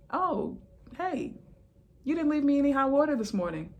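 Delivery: high, fast, mock-chummy retort; mock sassy reply. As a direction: play along sweetly to make a point. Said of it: "I'm like".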